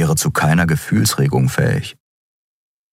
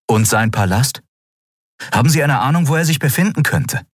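higher eager questioning; Kai's voice; 10 semitones higher, faster than usual. A narrator's reading. Kai pressing Keru, higher eager questions.

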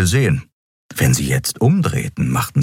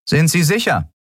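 suspicious guard; 12 semitones higher than usual. A narrator's reading. Guard presses Keru.

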